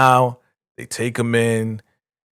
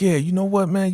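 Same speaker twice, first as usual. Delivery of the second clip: mock sassy; 10 semitones higher than usual. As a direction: throw it at him with attitude. Kimmy voiced, emphatic.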